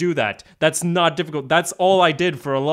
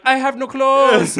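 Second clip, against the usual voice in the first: high, slow mock lament; hammed-up despairing cry; mock wailing; 8 semitones higher, 4 dB louder, slower than usual. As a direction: wail it helplessly, drawn out. Friend's helpless wail, acted.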